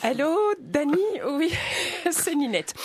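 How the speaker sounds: voix de dame bourgeoise, un peu plus aiguë, légèrement jouée; bourgeoise au téléphone. Acted. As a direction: appelle ta voisine en jouant la bourgeoise. Sketch starts, phone call character. (bourgeoise qui téléphone à son amie, légèrement jouée)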